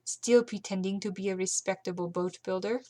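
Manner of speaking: Carlotta's line redone in her proper accent; corrected accent. Shown as a demonstration. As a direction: settle back into the right accent. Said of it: "I'm mixing up all my accents".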